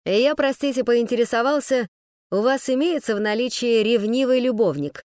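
light, breezy question; cheerful tone. Acted. Man breezily repeats his question to the woman, cheerful. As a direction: ask like chatting about butterflies. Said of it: "Весёленьким таким тоном".

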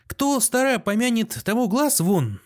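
high, lilting proverb; hearty reconciliation. A narrator's reading. Postmaster forgives the doctor, hearty. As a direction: brush the quarrel aside good-naturedly.

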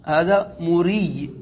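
هذا مري said very slowly, each word drawn out; slow demo reading. Shown as a demonstration. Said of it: "فتقول". (نطق بطيء جدا لهذا مري)

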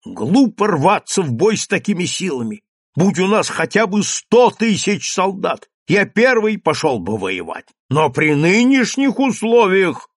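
the mayor raises his voice against war; loud, heated protest; shouting. A narrator's reading. Mayor argues loudly against fighting, shouting. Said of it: "бургомистр кричал".

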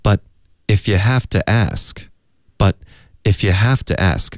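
if you have to ask spelled out slowly, each link audible; slow, careful teaching read; slow model sentence. Shown as a demonstration. Teacher slowly modelling the whole phrase for learners. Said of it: "整个句子就是".

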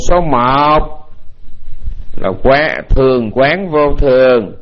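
slow, measured dictation; spaced out word by word; dictating. Real, not acted. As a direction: read it out slowly for note-takers. Dictates for listeners to write down.

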